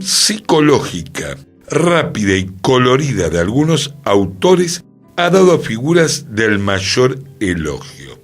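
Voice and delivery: declamatory reading with lifted phrase openings; formal quotation reading. Acted. Host quoting a critic on the sainete, formal declaimed reading. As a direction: recite it with measured theatrical emphasis.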